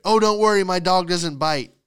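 high, loud sing-out reassurance; mock dismissive owner. Dog owner reassuring a wary stranger, high mock breeziness. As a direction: parody a carefree owner brushing it off. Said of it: "is my favorite".

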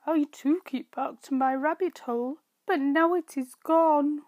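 a rabbit rushing out his bad news; upset rabbit. Rabbit explains to the mouse.

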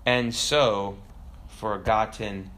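low, slow, solemn ghost father; Mufasa. Acted. Ghost father reproaching his son, low and solemn. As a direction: drop down and draw out each phrase. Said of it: "And Mufasa says".

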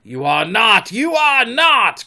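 rising, agitated yell; hoarse cry. A narrator's reading. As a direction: shout it twice, building in pitch. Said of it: "cried Hook hoarsely".

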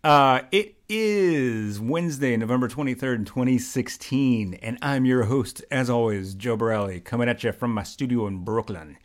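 smooth radio host intro, slowed on the date; host's best mock radio voice. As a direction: announce it like a DJ welcoming listeners. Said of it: "that's my best radio voice".

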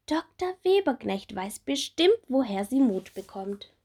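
high, bright little bumblebee; small bumblebee voice. Acted. Little bumblebee Bommel asking Marie about her wings, high childlike voice.

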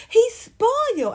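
high, drawn-out boast; mocking doting girlfriend. Mocking the same woman's boast.

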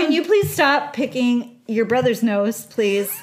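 exasperated mom raising her voice; yelling across the room. Pretend. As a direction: holler it at the kids across the house.

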